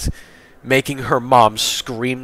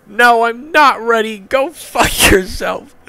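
high, loud defiant yell; screaming; 13 semitones higher, 4 dB louder than usual. A narrator's reading. Grandson refusing to die for grandfather, high scream. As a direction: scream back, drawing out the last words. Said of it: "Caillou screamed".

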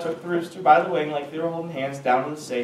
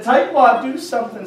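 panicked; 6 semitones higher, 5 dB louder than usual. Acted. Panicked call for help.

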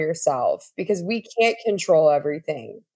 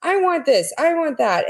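put-on high, impatient child nagging from the back seat; whiny kid in the back seat; 9 semitones higher than usual. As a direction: play a restless kid pestering the parent, pitched up. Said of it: "the kid's in the back seat and they're like".

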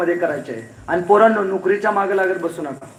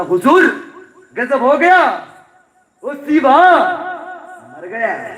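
louder, higher urgent report in Hindi; breathless messenger; 6 semitones higher, 4 dB louder, slower than usual. Acted. Messenger running to Aurangzeb with urgent news, loud. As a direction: burst in with the news.

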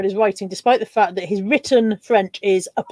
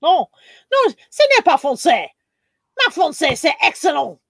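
fake French accent; 4 semitones higher than usual.

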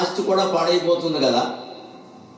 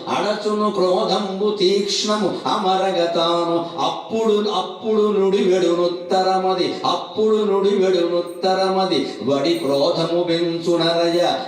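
slow, measured recital of the verse, spoken more than sung; verse recitation; slower than usual. Acted. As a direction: repeat the verse slowly, word by word. (నెమ్మదిగా పద్య పఠనం)

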